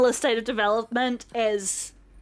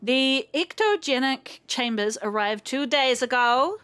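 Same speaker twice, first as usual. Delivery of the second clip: put-on vague European villain accent; Bond villain accent. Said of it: "I am not very good at this type of accent. I sound more like a Bond villain".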